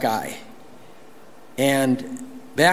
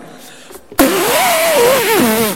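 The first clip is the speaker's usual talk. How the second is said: high, louder imitated diesel truck roar; mock engine roar; 6 dB louder than usual. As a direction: ham up a blasting exhaust noise, half laughing. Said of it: "I can't even imitate it".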